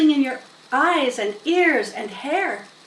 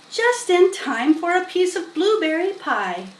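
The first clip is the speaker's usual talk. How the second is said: farm wife voice; 7 semitones higher than usual. A narrator's reading. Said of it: "said Missus Zuckerman".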